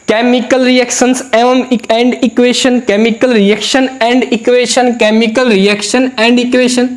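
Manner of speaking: slow, spelled-out classroom recitation; slow demo reading. Shown as a demonstration. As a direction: read each word very slowly, spaced out. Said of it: "ऐसे इसमें भी देख लो भाई".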